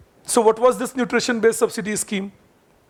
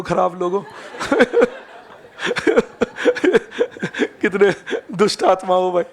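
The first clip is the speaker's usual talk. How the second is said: laughing mock scold; much faster than usual.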